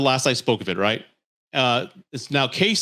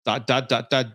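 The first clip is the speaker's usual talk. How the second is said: each dot spaced out with long pauses; dramatic pauses. Retold or imitated. Reading his text aloud, dots with dramatic pauses. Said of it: "even has the dramatic pauses".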